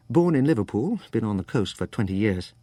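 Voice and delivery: a hint of Liverpool-born Californian English; California-Brit accent. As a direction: tell it with a slight English tinge. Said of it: "California Brit".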